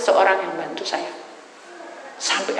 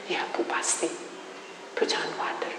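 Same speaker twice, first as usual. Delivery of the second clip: soft whisper; 7 dB quieter than usual. Retold or imitated. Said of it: "dia peluk".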